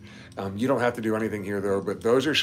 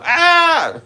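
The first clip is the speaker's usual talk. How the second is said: sudden high shrill yelp; high startled scream; shriek; 11 dB louder than usual. Real, not acted. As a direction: jump and squeal. Startled by touch.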